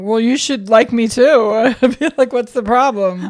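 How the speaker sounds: slow, loud mock offended demand; mock indignant. Imagining talking to the cold stepmom, loud mock indignation. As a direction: huff it out in fake outrage. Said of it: "I would have been like".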